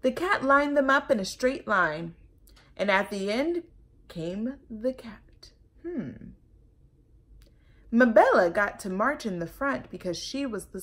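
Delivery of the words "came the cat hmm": hushed suspense whisper. A narrator's reading. Narrator whispering to children as the cat lurks. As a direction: whisper it ominously.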